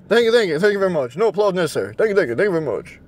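tossing off a mock sign-off of a famous singer; a light, understated impression of the singer. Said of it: "That's Elvis".

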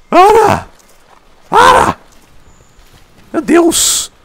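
very high, loud yelled stop; frustrated scream. Real, not acted. Gamer screaming at the escaping monster, frustrated high yell. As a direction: shriek at it to stop. Monster keeps running away.

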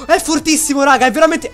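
excited. Real, not acted. Amazed at shotgun damage.

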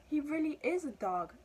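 high, loud realization; startled, pitched well up; amazed cat. A narrator's reading. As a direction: exclaim it in astonishment.

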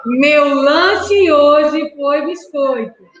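slow, separated words; slow dictation. Shown as a demonstration. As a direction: dictate each word for counting. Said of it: "mais uma frase um pouquinho mais rápido".

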